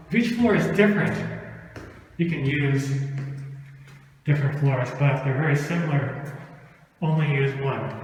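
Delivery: winded from climbing stairs; breathless between phrases; out of breath. Real, not acted. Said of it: "Sorry, a bit short of breath".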